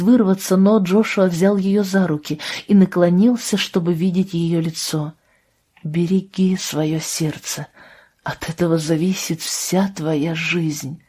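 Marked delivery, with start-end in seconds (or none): 5.8-11.0 slow, softer heartfelt counsel; slowly, softly, lay it on her heart; earnest tender advice. Acted. Джошуа наставляет Абру. (медленное, тихое наставление Джошуа Абре)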